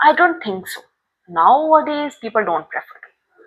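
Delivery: slow, drawn-out disagreeing answer; negative answer intonation. Shown as a demonstration. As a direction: stretch the words out reluctantly. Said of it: "आपकी pitch थोड़ी सी slow हो गई, आपकी fluency थोड़ी सी खिंच गई". (धीमे, खिंचे हुए लहजे में नकारात्मक जवाब)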